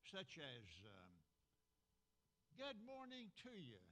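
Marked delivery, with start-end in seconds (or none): 2.6-3.8 bright greeting, much higher and louder; a big sung-out hello; exclamation. Shown as a demonstration. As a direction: call it out like an exclamation mark. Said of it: "exclamation mark".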